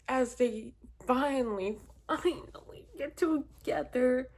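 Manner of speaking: high, loud exasperation, disbelieving questions; exasperated rant. Real, not acted. Vlogger ranting to viewers about the ending, high exasperated. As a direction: vent it like a betrayed fan. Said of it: "this is giving me mad all over again".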